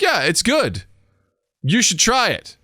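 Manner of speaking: casual drink recommender. Retold or imitated. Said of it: "it's like".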